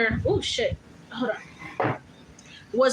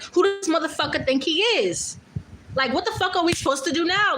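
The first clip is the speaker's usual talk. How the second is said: mock mad rant; 4 semitones higher than usual. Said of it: "getting real mad".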